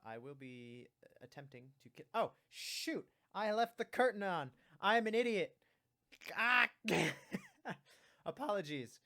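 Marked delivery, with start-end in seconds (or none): 2.1-6.7 shouted dismay at own blunder; panicked self-scolding shout; loud outburst. Real, not acted. Realizes mistake on stream. 6.7-8.2 loud embarrassed laugh. Real, not acted. Laughs after blunder.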